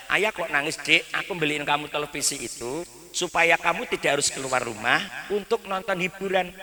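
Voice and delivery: soft tender father. Retold or imitated. Father softly pleading with his son to pray, tender and quiet. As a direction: gently shame the child into praying. Father gently lecturing child.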